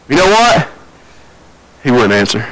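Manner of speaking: ordinary talk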